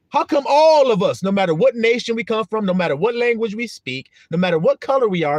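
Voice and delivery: fervent preaching crescendo. Real, not acted. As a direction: drive the point home to the flock. Building rhetorical preaching.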